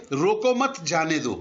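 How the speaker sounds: "روکو مت" grouped together, then "جانے دو"; deliberate demo, break after "مت" in "روکو مت، جانے دو"; pause after مت. Shown as a demonstration. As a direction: slowly join "مت" to "روکو" before "جانے دو". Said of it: "روکو مت کے کہے گا".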